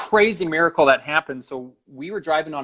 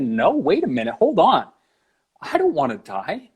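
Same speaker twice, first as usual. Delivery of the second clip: acting out a sudden refusal, jumping high on "hold on"; mild retold protest; 4 semitones higher, 4 dB louder than usual. Man refusing to die, acted-out protest. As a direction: put the brakes on, voice leaping up midway. Protesting his own death.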